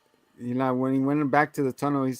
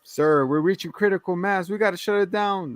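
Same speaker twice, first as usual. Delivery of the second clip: acted urgent warning; 6 semitones higher than usual. Acted underling warns the boss.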